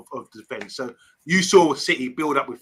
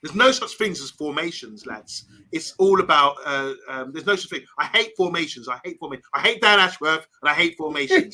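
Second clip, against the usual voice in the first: light put-on accent impersonation; Bath Time's accent. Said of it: "I'm gonna do Bath Time's accent".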